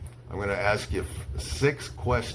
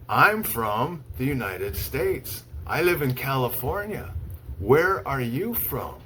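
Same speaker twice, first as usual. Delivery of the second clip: slow model lines; 3 semitones higher than usual. Shown as a demonstration. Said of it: "I'll show you how I make an introduction".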